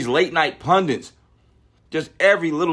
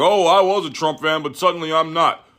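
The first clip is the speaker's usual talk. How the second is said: mock convert; 4 semitones higher than usual. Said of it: "It was like".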